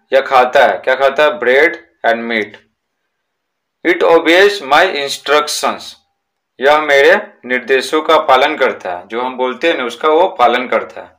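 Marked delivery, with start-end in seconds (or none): 1.3-5.8 each word slow and separate for the class; slow reading aloud. Shown as a demonstration. Teacher dictating a textbook sentence to pupils, slow and deliberate. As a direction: read it out slowly so pupils can write it down.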